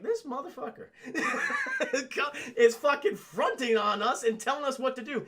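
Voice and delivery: high voice cracking up with laughter; laughing mock indignation. Streamer voicing an affronted goblin, laughing. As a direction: imitate outrage while giggling through it.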